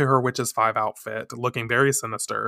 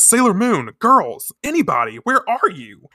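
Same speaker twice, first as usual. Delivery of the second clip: high, louder searching calls; calling out; 8 semitones higher, 4 dB louder than usual. Acted. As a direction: call out down the hallway for the girls. Calling out for friends.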